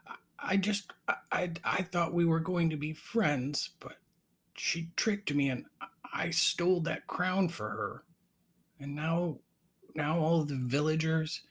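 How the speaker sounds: high, halting character voice; tearful young ogre. Acted. Tricked ogre confiding in raven, high hesitant voice. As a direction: stammer out a woeful confession, pitched high.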